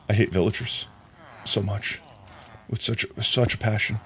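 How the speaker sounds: quiet grumble. Real, not acted. Muttering hatred of villagers.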